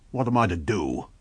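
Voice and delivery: grudging, resigned question; sullen. Acted. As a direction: ask it sulkily, beaten. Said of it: "he said sullenly".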